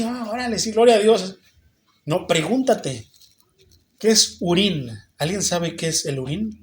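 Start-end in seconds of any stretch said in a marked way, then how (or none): 0.0-1.4 higher-pitched mock amen; mock unthinking reaction. Preacher imitating an unquestioning reader, mock praise. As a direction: imitate a reader nodding along without understanding. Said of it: "y de repente dices así".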